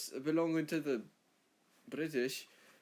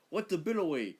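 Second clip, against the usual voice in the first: raised, mock-baffled Australian accent; baffled visitor; 4 semitones higher, 4 dB louder than usual. Visitor hearing a fake word, baffled exclamation. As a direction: exclaim it, puzzled and higher. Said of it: "when people come here, they're like".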